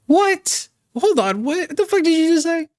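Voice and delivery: high, sharp disbelief; what did she just say, stunned and high; shocked outburst. Real, not acted. Streamer stunned by what the clip just said, shocked high outburst.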